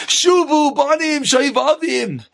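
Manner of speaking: high-pitched, drawn-out mock preaching; imitating a screamed musar talk; screamed sermon. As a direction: declaim it like a blaring sermon tape. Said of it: "he hears a Musar shmooze screaming".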